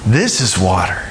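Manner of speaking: deep, emphatic declaration after a long pause; fish number three. Acted. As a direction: play a fish announcing a revelation, low and full. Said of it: "fish number three goes around and goes".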